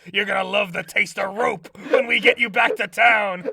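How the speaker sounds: a hint of a menacing sheriff; scary sheriff. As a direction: lightly play a threatening lawman. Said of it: "like a scary sheriff being like".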